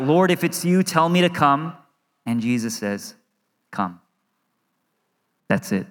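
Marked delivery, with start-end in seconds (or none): 0.0-1.7 mild raised-pitch call to Jesus; a restrained cry, pitched up. Retold or imitated. Peter calls to Jesus from the boat, retold as a mild cry. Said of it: "Peter cries out". 3.7-4.0 low, soft one-word invitation; quiet command. Retold or imitated. Jesus answers Peter in the boat, quiet and low.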